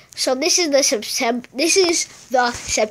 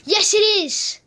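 much higher, joyful yes; excited relief; 9 semitones higher, 3 dB louder than usual. Real, not acted. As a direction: cheer it with relief. Finds health.

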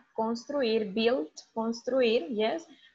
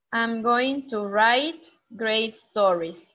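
slow model reading; 3 dB louder than usual. Shown as a demonstration. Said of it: "Which profession is it?".

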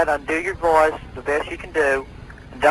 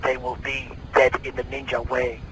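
villain voice taunt. Acted. Villain mocking the cop and the kid. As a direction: sneer it like a comic-book baddie.

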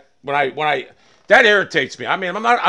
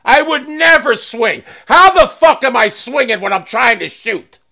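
higher-pitched, exasperated venting; mad protest; 4 semitones higher than usual. Real, not acted. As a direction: protest angrily, can't get over it. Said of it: "I'm so fucking mad about that".

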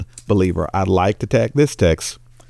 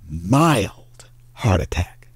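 slow punchline; much slower than usual. Acted. Punchline of the joke.

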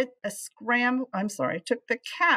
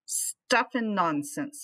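gruff dismissal; slower than usual. Acted. Flugel dismisses the cat.

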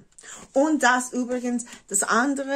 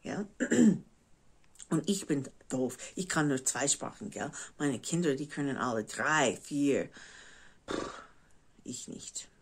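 American speaking German; German with an American accent; English accent in German; 3 semitones lower, 5 dB quieter than usual. Real, not acted. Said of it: "mein Deutsch ist nicht perfekt".

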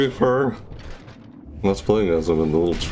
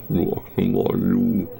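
mock Reaper rasp; slower than usual. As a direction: mimic the villain line, drawn out slowly. Echoing Reaper voice line.

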